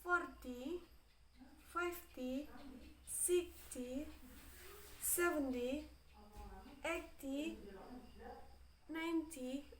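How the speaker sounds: each of "forty, fifty, sixty, seventy, eighty, ninety" stronger on its first syllable; first-syllable stress. Shown as a demonstration. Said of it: "louder than the other".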